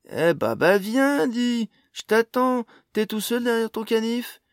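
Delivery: loud, high-pitched goading; taunting dare. A narrator's reading. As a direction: dare him to come at you. Jasion dares knife-wielding youth to attack.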